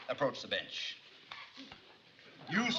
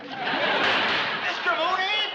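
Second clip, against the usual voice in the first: stern warning; 9 semitones higher, 5 dB louder, much slower than usual. Acted. Judge warns outburst in court.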